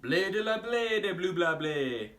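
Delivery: slow, proud fake French; confident gibberish French. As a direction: perform nonsense as fluent French. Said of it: "Okay, sure".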